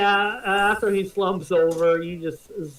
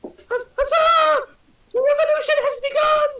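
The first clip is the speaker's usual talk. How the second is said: fiery revolutionary speech; 6 dB louder than usual. Acted. Worker elves rise up.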